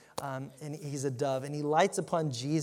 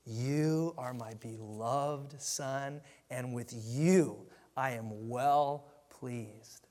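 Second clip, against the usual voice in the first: the voice of God, very slow and deliberate; a hint of a solemn divine voice, much slower; voice of God Almighty; 3 semitones lower, much slower than usual. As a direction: stretch each word like a weighty pronouncement. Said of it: "the voice of God Almighty cracks the silence and says".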